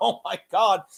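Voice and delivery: put-on, derisive, mocking giggly exclamation. Retelling how someone laughed at another person: imitating mocking giggle. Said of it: "and giggled like how pathetic he is".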